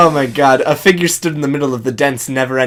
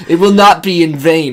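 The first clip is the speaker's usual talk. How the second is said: bold heroic voice, a bit louder; 3 semitones higher, 5 dB louder than usual. Acted. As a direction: speak like a noble leader.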